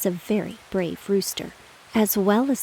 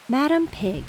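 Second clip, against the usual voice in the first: higher boastful call; proud rooster calling; 6 semitones higher than usual. Acted. Rooster calls to Madam Pig on the wall, proudly. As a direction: call out to her from the roof. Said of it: "he said".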